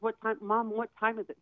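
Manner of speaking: a son repeating the question impatiently, mildly imitated; lightly imitated insistent son. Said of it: "He was, like, very insistent".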